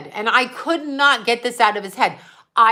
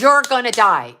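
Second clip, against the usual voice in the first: louder, forceful retelling of an angry outburst; retold angry outburst; retold rage; 6 dB louder than usual. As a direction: re-enact an enraged warning, punched loud. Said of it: "I became enraged".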